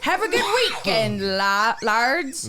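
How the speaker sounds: badly faked Irish lilt; attempted Irish accent. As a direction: try a stage Irish accent. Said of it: "you gotta add lads at the end".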